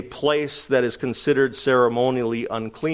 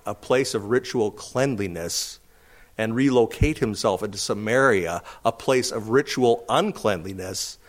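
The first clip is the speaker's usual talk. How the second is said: questioning Jew; 3 semitones lower than usual. Acted. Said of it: "What do you think this Jew was saying".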